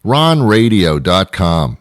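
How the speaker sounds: ron radio dot com said slowly, word by word; slow spelled-out web address. Shown as a demonstration. Host telling listeners the address, slow and clear. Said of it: "That's easy, right?".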